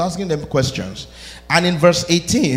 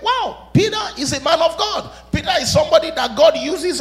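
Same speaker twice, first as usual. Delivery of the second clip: amazed admirers; 11 semitones higher than usual. Retold or imitated. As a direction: gush like a wowed crowd. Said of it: "you was like".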